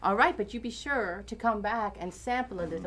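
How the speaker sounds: put-on jokey stage-Irish accent; put-on Irish accent, full of blarney. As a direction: ham up an Irish lilt playfully. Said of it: "I'll try to drop the Irish accent".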